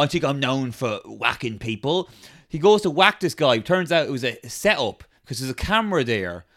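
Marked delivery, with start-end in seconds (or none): 0.0-2.1 Pat Tate. Acted. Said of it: "And Pat Tate's like".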